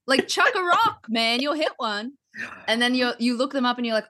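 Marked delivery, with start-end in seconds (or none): 0.1-2.1 high-pitched, baffled rant; mock exasperation. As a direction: protest as if the answer were blindingly obvious. Retold reaction to fake-sounding Australians.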